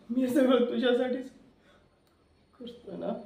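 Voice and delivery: laughing mockery, voice dropping at the end; mocking laugh. Villain to crying woman, laughing mockingly. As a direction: sneer through a laugh.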